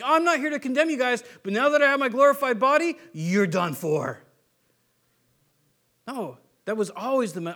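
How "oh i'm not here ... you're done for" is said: a sarcastic twist into threat; mock vengeful Jesus. Mocking a wrong idea of Jesus, turning menacing. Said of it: "where it was like".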